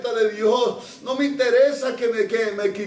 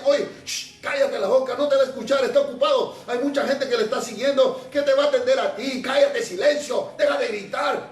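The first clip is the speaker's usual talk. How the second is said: hushing crowd; faster than usual. Retold or imitated. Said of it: "yo me imagino que le decían".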